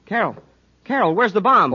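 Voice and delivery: high, loud, urgent calling of Carol; frantic to find the bomb; calling out to the tied-up girl; urgent cry. Acted. Finds captive girl, bomb ticking.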